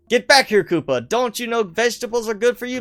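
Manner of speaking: lightly voiced plumber doctor scolding; mock scolding in a light cartoon plumber voice; Doctor Mario. Doctor chasing Koopa about vegetables, mock scolding. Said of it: "Maybe Doctor Mario again".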